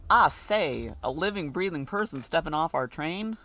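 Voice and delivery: a hint of a posh British gentleman greeting; British accent. Greeting a newcomer off the train in a light British accent. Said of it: "can't do a British accent".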